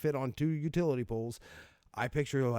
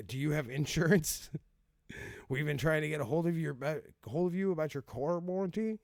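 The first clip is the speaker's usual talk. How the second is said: higher, lightly voiced sales caller; mock telemarketer; 5 semitones higher than usual. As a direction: imitate a pestering warranty call. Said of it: "that kind of advertisement".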